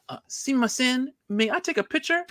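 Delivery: high-pitched, tentative fan asking; timid request. Retold or imitated. Asking star for a photo.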